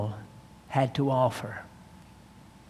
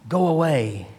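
a hint of a frightened cry, a little louder; half-acted plea of a scared old man; understated terrified "Go away"; mild retold terror; 3 dB louder than usual. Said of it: "he cried in a sharp, shrieking voice of terror".

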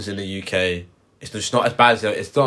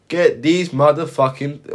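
Samuel L. Jackson catchphrase; 6 semitones higher, 3 dB louder, slower than usual. Retold or imitated. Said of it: "his trademark is saying".

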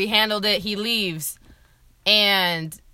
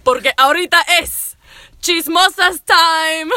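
lucha libre announcer; 3 dB louder than usual. Acted. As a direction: announce it like a wrestling show host. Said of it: "we're trying to figure out an intro".

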